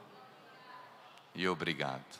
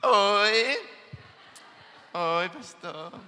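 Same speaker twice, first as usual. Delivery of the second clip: put-on shy little girl; 4 semitones higher, much slower than usual.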